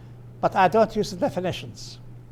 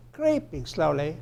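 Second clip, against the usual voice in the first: softer repeat led by CREEPING; stress on CREEPING; 2 semitones lower, 6 dB quieter than usual. Shown as a demonstration. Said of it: "But notice the intonation".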